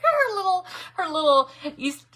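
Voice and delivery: high, loud through giggles; laughing. Real, not acted. Crafter tickled by a friend's accent, laughing. Giggling over what she misheard.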